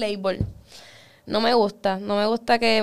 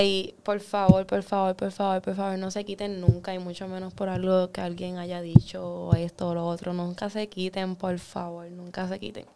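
soft, earnest pleading; sincere plea; 3 semitones lower, 6 dB quieter than usual. Real, not acted. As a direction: beg them gently not to quit. Heartfelt plea to audience. (súplica sincera y suave)

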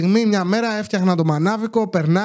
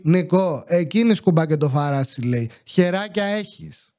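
haughty tone; 4 semitones lower than usual. Retold or imitated. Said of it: "μου λέει με υφάκι".

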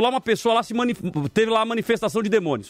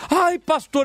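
mock cry of alarm; 6 semitones higher, much slower than usual. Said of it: "uma irmã grita assim".

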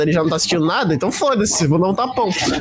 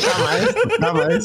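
squeaky jamais; high-pitched never; much slower than usual. Real, not acted. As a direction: shriek the refusal up high. Emphatic refusal, high.

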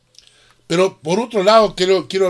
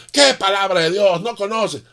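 higher-pitched mock shout; retold scornful yell; 5 semitones higher than usual. Atheist scoffing at the Christian's Bible, higher-pitched mock shout. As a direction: sneer it back at him. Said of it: "el otro gritaba".

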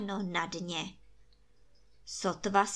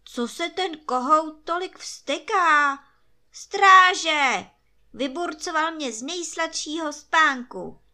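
higher, loud furious emperor yelling for the guards; angry command; 6 semitones higher, 8 dB louder than usual. A narrator's reading. Emperor woken by the crowing rooster shouts for his guards, angry and loud. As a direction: bark orders like a woken, cranky emperor. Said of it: "zavelel císař".

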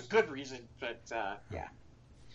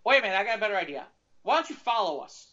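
eager cop; 4 semitones higher, faster than usual. Retold or imitated. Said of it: "And he's like".

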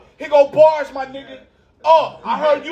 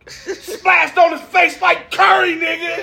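hype shout; 6 semitones higher, much slower than usual. Real, not acted. Hyping a shot, shouting.

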